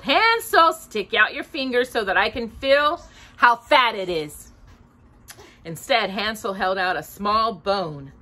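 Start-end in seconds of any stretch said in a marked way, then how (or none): 0.0-4.5 high call of the name, then wheedling. Acted. Witch calling Hansel at the kennel, sing-song. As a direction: call him from outside the kennel. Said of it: "crept out to the kennel and called".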